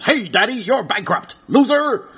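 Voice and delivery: lightly put-on talking gadget taunt; taunting phone voice. Phone tells Daddy he's bankrupt, mildly mocking taunt. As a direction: jeer lightly, rising on the last word. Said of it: "the thing just turns around and says".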